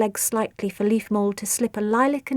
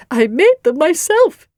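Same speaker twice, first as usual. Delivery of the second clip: beetle mother voice; 6 semitones higher, 7 dB louder, slower than usual. A narrator's reading. Agar continues her voice.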